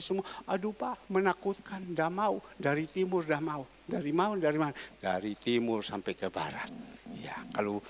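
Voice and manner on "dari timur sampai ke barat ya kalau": soft unvoiced whisper, low; whispered aside. Real, not acted. Preacher whispers an aside to the congregation, hushed. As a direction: murmur it under the breath.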